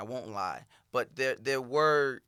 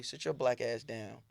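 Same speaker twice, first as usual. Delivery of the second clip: stern dad; 3 semitones lower than usual. Retold or imitated. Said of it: "very sternly".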